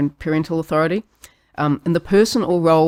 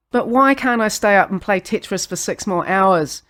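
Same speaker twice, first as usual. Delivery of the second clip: put-on pleading, whiny kid voice; frustrated child whine; 3 semitones higher, 3 dB louder than usual. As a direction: whine it like a tired kid begging. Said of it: "your best frustrated, scrunch-faced whine".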